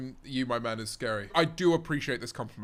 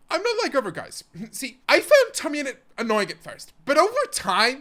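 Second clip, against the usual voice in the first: high mocking voice through laughter; mock laughing voice; 8 semitones higher, 3 dB louder than usual. Streamer mocking a confession in chat, laughing high. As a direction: laugh while you mimic a smug fan.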